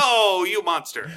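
slow, hammed-up gasp of outrage; mock outrage. Listener scolding the villain in slow mock outrage. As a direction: play the shocked hero, drawn out. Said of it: "I'm like".

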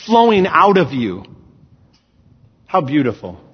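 emphatic, projected sermon delivery; preaching. Real, not acted. Preacher telling the church God lives within them, preaching. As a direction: preach it in measured, weighted phrases.

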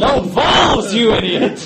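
high, very loud heckle; shouted insult. Acted. Heckler correcting the last screamer, loud shout. Joining the acted shouting match.

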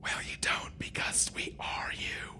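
unearthly voice. Acted. Future self whisper.

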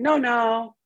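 brushing-off voice. Retold or imitated. Dismissing the panicking part.

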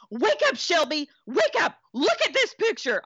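high, pleading mock yell at her daughter; retold yelling. Mother at her daughter's bedside, high pleading mock yell. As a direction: shake her awake with your voice. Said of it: "starts yelling".

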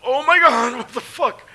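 loud, high-pitched retold yelp; mock-horrified high exclamation; shocked outcry. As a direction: cry out in shock, reenacting the hit. Retelling his shock at impact.

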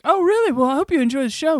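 very high, quick put-on pleasantry; imitated polite reply. Writer answering a supposed fan, high imitated politeness.

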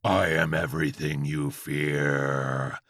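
low, slow demonic drone; howling demon Chihuahua. A narrator's reading. Chihuahua answers frightened George, low menacing howl. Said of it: "howled the Chihuahua".

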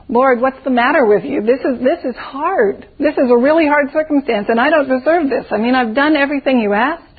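complaining disciple. Retold or imitated. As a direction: whine to the Lord like a tired disciple. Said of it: "their thinking might go something like this".

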